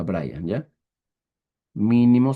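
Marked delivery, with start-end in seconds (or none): 1.7-2.3 Mínimo with the first I stressed; Mínimo, accented on its opening syllable. Shown as a demonstration. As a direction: lean on the MÍ of Mínimo. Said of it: "se escribe con acento en la primera I".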